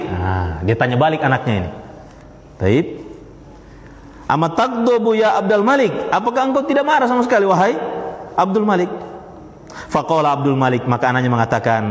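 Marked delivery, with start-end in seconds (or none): 4.3-8.9 higher, probing question to the son; father turning the question on his son; questioning caliph. Retold or imitated. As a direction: ask back, half amused. Caliph asks his son back.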